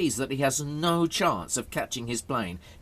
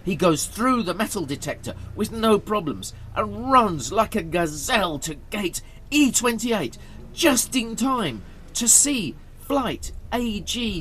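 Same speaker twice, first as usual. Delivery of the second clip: higher, urgent narrator; excited story narration; 7 semitones higher, 3 dB louder than usual. A narrator's reading. Narrator tells of Harold racing to the gate, excitedly. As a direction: build the excitement of a last dash.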